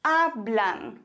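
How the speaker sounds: hablan with a stressed A, falling blan; stress on first syllable. Shown as a demonstration. Teacher models the plural, stressing A in hablan. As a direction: lean on the A of hablan. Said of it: "immer die richtige Silbe betonst".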